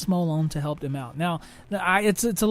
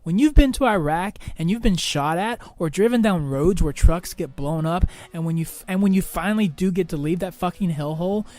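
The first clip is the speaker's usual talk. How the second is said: firm, mildly heated rebuke; somewhat angry tone. Retold or imitated. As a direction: retell an insulted son setting his mother straight, emphatic. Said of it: "in somewhat of an angry tone".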